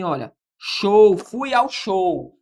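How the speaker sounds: slow example of everyday show; slow demo of show. Shown as a demonstration. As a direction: show drawn out slowly as in English. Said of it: "A gente fala assim". (show dito devagar, como exemplo)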